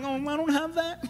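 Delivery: high, thin self-pitying voice; hammed-up jealous whimper; mock envious whine. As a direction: pout it in a put-on high voice. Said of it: "That's what you sound like".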